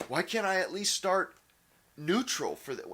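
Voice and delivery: hammed-up entitled yelling at the sky; mock scream at the ether. Man mocking someone yelling at the sky for food, loud, high mock outrage. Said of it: "scream at the ether".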